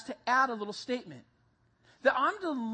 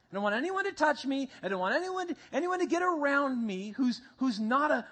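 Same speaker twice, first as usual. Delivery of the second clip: mock self-righteous Christian; 5 semitones higher, 3 dB louder than usual. Mocking self-righteous Christian quote.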